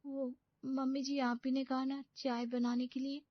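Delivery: put-on a pampered young bride panicking to herself; young bride's voice, dismayed at waking early; naive young bride. Bride answers mother-in-law.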